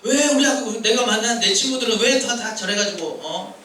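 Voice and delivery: mock grumbling about classmates; acted complaining. Preacher voicing a student blaming school friends, mock complaint. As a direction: protest like a fed-up student, lightly. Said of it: "이렇게 불평할 수 있다는 거죠".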